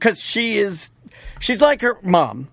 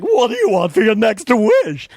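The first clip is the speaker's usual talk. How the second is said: genie voice; 2 semitones higher than usual. Acted. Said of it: "That's my genie voice".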